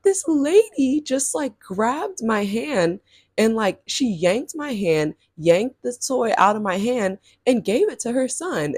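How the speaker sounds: slow, drawn-out retold complaint; a hint of an upset kid telling mom; mock tearful child. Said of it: "I just start, like, crying".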